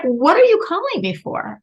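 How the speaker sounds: loud, high, indignant mock demand; harsh mother. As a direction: act out a mother's harsh rebuff. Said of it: "the mother was very harsh with her".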